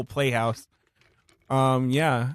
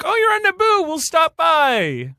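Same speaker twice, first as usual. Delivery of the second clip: high, sing-song fussing parent voice; posh cooing parents; 12 semitones higher than usual. Retold or imitated. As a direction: gush over her like doting parents. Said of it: "they're like".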